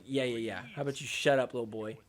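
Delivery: low, quiet, dismissive taunt; mock put-down. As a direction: brush off a rival under your breath. Acted player dismisses his rival.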